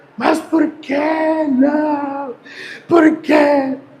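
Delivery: put-on high, tearful small child's tantrum, drawn-out "não". Retelling how Valentina reacted when refused a snack, imitating Valentina's tantrum. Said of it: "ela começou um mini escândalo ali".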